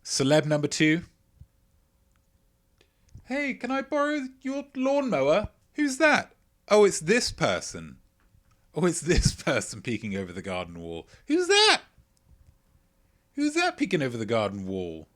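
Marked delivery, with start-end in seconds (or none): 3.2-15.1 high, put-on neighbor voice calling over the fence; a neighbor leaning over the wall, high put-on voice. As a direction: play the nosy neighbor much higher.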